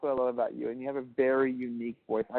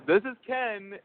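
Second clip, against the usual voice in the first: higher, drawn-out self-introduction; everyday self; 8 semitones higher, slower than usual. Shown as a demonstration. Man contrasting his usual self with his serious one, higher. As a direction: present yourself in a higher, easy voice. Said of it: "this is me when I wanna be serious".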